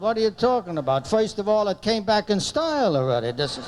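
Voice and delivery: defensive husband. Retold or imitated. Husband defending old suit to wife, defensive. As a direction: imitate a husband sticking up for his suit. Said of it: "Every husband has the same answer".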